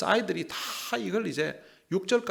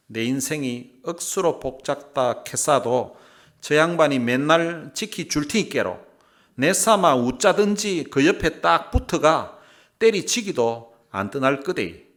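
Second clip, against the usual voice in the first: loud, punchy Gyeongsang dialect reading; 2 semitones higher, 8 dB louder than usual. Shown as a demonstration. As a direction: belt out scripture in Gyeongsang dialect. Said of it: "이게 이제 경상도 버전이에요". (힘주어 크게 경상도 사투리로 읽기)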